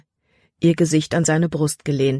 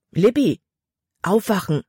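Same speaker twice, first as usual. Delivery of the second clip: urgent wake-up call; 4 semitones higher than usual. Acted. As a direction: shake her awake with your voice. Father waking daughter from nightmare.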